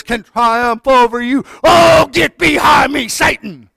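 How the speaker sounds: loud, forceful rebuke to the devil; defiant rebuke. Shown as a demonstration. Believer rebuking Satan, loud and defiant. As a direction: shout him down with scorn. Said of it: "tell him what Jesus said".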